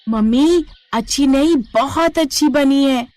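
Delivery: put-on a kid raving about dinner; delighted child. Child delightedly praises food.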